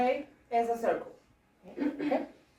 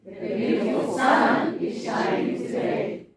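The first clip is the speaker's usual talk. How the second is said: slow, loud chant leaning on "sun"; loud group line punching "sun"; stress on sun; 7 dB louder, slower than usual. Shown as a demonstration. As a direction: hit the word "sun" together. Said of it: "Now, sun".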